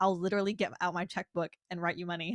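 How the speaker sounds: plain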